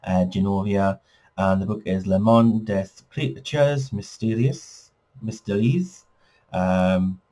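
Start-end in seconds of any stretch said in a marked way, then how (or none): 2.1-6.0 English speaker's clumsy French accent on the title; a hammed-up, half-hearted French accent; bad French accent. Shown as a demonstration. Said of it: "that's my bad French accent".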